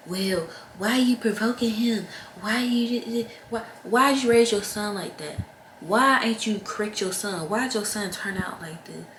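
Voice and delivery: whiny accusing relatives, hammed-up; mocking the family. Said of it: "they gonna always try to pin it on the woman".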